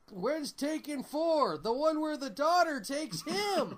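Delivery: loud, slow, hammed-up fan voice; mock excited fan. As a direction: shout it like an eager fan. Mocking fans asking for sequel.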